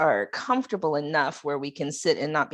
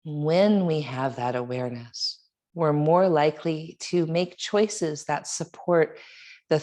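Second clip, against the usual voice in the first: guided meditation. Real, not acted. Yoga teacher leading students in a reflection on breath and water, meditative. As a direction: guide them reflectively, leaving long pauses between phrases.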